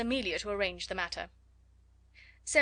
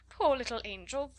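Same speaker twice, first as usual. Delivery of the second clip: put-on cooing sympathy for a child; coaxing pity; 3 semitones higher than usual. A narrator's reading. Flustered teacher soothing a screaming child, coaxing. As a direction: coax sweetly between threats. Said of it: "such different kinds of things".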